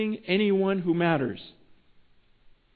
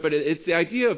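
usual speaking voice

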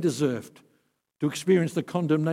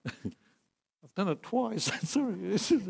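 laughing confession; 7 semitones higher, slower than usual. Real, not acted. Confessing losing a kid.

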